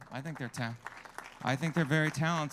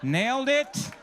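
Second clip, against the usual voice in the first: much higher and louder, crowing; triumphant cheer; 5 semitones higher, 8 dB louder than usual. Real, not acted. Comic celebrating a landed joke with the crowd, loud and triumphant. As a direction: celebrate the punchline like a win.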